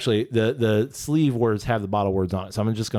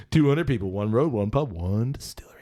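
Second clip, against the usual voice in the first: movie trailer voice. Acted. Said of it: "That movie trailer voice".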